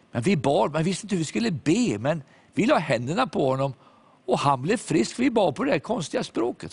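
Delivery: lightly voiced girls recounting the healing; eager teen girls. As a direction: voice the girls, rising with excitement.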